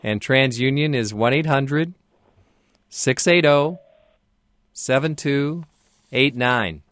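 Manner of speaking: reading out digits slowly and clearly; slow dictation. Real, not acted. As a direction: spell out each number slowly for the caller. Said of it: "Would you please give me the phone numbers".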